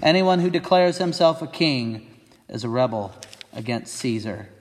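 high, insistent shouted threat; shouting. Acted. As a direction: warn him off by raising the voice. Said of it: "the Jewish leaders shouted".

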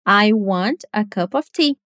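"want", "cup" and "tea" stressed, the rest run together; stress on content words. Shown as a demonstration. Teacher modelling sentence rhythm for students, content words stressed. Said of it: "As content words, as palavras de conteúdo, são want, o verbo, cup e tea".

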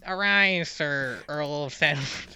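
slow grand royal proclamation; solemn regal knighting. Pretend. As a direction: knight someone with ceremony. Mock knighting ceremony.

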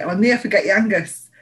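bad Scottish accent again, barely put on; a half-hearted Scottish accent; terrible Scottish accent. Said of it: "That was a really terrible Scottish accent".

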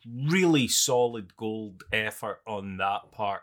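slow, deadpan mock praise; sarcastic. Real, not acted. Film fan mocking a bad remake, sarcastic. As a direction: praise it slowly with heavy irony. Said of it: "I'm being sarcastic".

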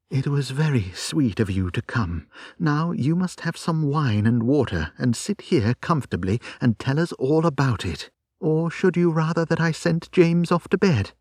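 put-on tender old friend; comforting wife. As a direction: coax her to sit and talk.

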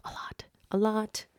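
hushed, half to yourself, a lot; whisper. Real, not acted. Admitting she talks to herself, whispered.

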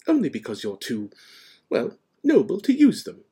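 admiring professor, rising high; hesitate, then praise emphatically; McGonagall. A narrator's reading. McGonagall praising Dumbledore's nobility, admiring.

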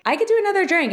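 perky flirt suggesting another round; flirty bold offer. Retold or imitated. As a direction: toss it out boldly and playfully.

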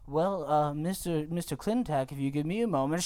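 lightly voiced deferential underling; hesitant underling. Underling asking Mister Clintack for a moment, mildly hesitant. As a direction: stammer politely, a touch meek. Acting timid underling to boss.

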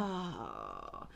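low, flat unimpressed oh; deadpan oh. Retold or imitated. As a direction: say it utterly unimpressed. Her unimpressed reaction.

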